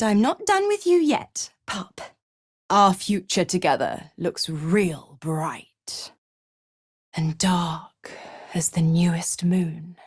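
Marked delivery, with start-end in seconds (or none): 2.7-10.0 low, sinking to a whisper; ominous, hushed relish; dark promise. Acted. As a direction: let it darken into a breathy hush. Sinister promise of a shared future.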